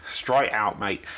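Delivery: put-on a light, playful Australian accent on "straight out, mate"; slipping into Australian. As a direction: drop into a hint of Australian, just for a moment. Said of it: "I started going a bit Australian there".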